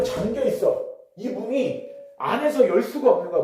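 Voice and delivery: ordinary talk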